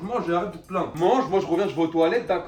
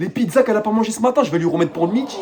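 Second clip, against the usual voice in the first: higher, whiny complaining voice; high-voiced second character; 5 semitones higher, 5 dB louder than usual. Roommate complains he always has to cook, high and whiny. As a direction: whine that you always cook.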